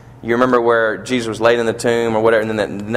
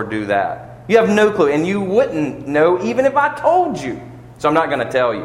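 put-on scolding a child; 5 semitones higher than usual. Father scolding his son for talking back, firm and exasperated. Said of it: "I said to my kids".

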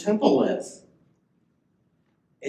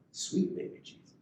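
Maya's inflection; 6 dB quieter than usual. Retold or imitated. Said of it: "Let me get the inflection".

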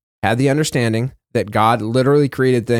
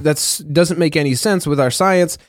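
mocking; 3 semitones higher than usual. Host voicing scoffers who set science against the Bible, mildly mocking. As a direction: play the doubtful scoffer, lightly. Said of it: "they will mock it".

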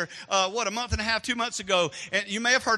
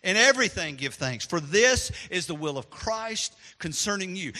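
scripture reading. Shown as a demonstration. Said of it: "Listen to what Apostle Paul said".

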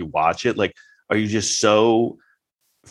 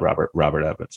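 Robert Evans impression; 4 semitones lower than usual. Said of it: "That's kinda how the guy sounds".

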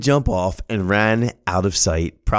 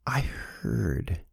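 normal talking voice

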